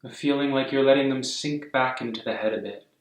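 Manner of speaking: calm, unhurried meditation guidance; guided meditation. Real, not acted. Yoga teacher guiding a class to soften and breathe, calm meditation voice. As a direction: ease them gently into stillness, phrase by phrase.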